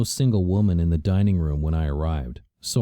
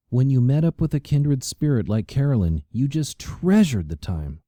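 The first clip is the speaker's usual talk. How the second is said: gushing socialite; 7 semitones higher than usual. A narrator's reading. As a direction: linger on the memory. Karina voiced by narrator.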